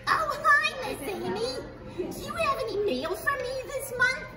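lightly voiced cheerful puppet; a friendly puppet greeting the librarian; puppet character. Corky greeting the librarian at the library, cheery puppet voice.

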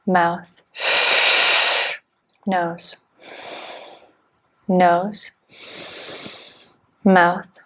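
terse, evenly spaced breathing instructions; measured meditation-teacher cueing; guided breathwork cues. Real, not acted. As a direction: count the breath in and out with single-word cues, long pauses between.

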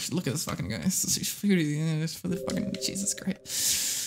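real whispered exasperation. Real, not acted. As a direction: hiss it under your breath. Whispered curse at game.

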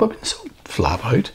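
hushed whisper. Real, not acted. Whispered excuse.

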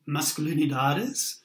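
Masculinidades said in Spanish, all syllables even; Spanish pronunciation. Shown as a demonstration. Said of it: "excuse my Spanish accent".

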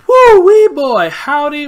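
slow, high, loud cowboy holler; playful yee-haw cowboy shout; mock cowboy. Hammy cowboy exclamation.

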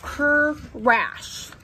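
drawn-out, broken "cr-rash"; storybook crash noise. Acted. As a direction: split the word as a sound effect.

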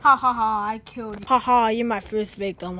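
gleeful evil cackle, then a gloating line; villain laugh. Acted. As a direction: cackle like a triumphant killer. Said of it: "why am I laughing like that".

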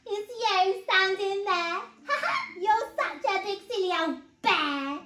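put-on high, loud mirthful boy; acted gleeful giggle; giggling child. A narrator's reading. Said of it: "giggled Eddie".

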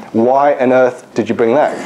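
slow, mock-incredulous demand; exasperated disbelief. Professor questioning the resident's ultrasound, exasperated disbelief. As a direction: imitate a senior doctor, drawing out the disbelief.

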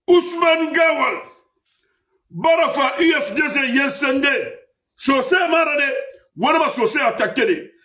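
rally speaker at full force; shouted oratory. Acted. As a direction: call the name out to the crowd. Political speech, accusing.

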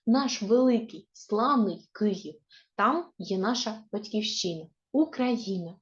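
put-on measured, expressive reading of a children's verse; poem recitation. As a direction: recite the poem line by line for schoolchildren. Teacher recites a patriotic poem. (виразне читання дитячого вірша)

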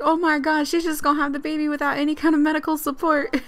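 high, lightly voiced panicking dad; mock panic. Player voicing Leo before the birth, mock panic. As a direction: play a flustered father-to-be. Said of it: "Pre-parental panic".

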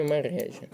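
мережа stressed on the middle syllable, ре; correct stress. Shown as a demonstration. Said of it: "Правильний наголос у цьому слові".

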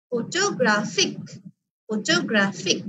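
ফটোগ্রাফিক with weight on গ্রা; stress on third syllable. Shown as a demonstration. Teacher models for class, third syllable গ্রা of ফটোগ্রাফিক stressed. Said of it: "third সিলেবলে কি করছি, stress দিচ্ছি".

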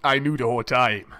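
low, smug anime hero impression; lightly voiced smug anime swordsman; anime character voice. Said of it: "some anime Demon Slayer character".

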